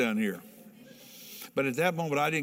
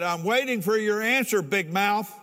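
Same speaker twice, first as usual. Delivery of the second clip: retold threat; 7 semitones higher than usual. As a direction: push him for an answer. Threatening the bully in the barracks.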